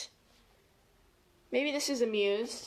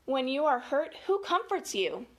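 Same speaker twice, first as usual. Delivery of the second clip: clear, measured read-aloud question; storybook question with a lift; picture-book reading; 2 semitones higher than usual. Acted. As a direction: read it out to children word by word.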